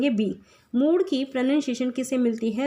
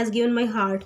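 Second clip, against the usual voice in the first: reads each word of the verse slowly; teacher reading a poem line slowly; slow recitation; much slower than usual. Shown as a demonstration. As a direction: drag the poem line out for the class. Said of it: "इसमें क्या word है".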